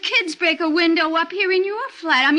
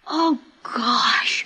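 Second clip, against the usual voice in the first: awed whisper; 2 semitones lower than usual. Acted. Boy sees the broken window.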